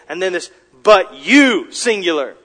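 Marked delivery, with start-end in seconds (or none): 0.8-1.7 YOU punched much louder; emphatic YOU. Shown as a demonstration. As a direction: hit the word YOU hard.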